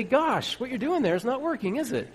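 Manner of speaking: high, falsely helpful remark; mock helpful. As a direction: play the know-it-all stating the obvious. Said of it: "When they say".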